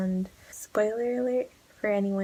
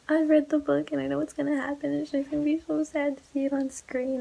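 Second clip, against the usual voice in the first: high-pitched tearful whine; mock crying; 7 semitones higher than usual. Crying fan at the movie premiere, mock-tearful whine. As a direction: imitate blubbering in dread of a sad film. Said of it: "I literally just started crying".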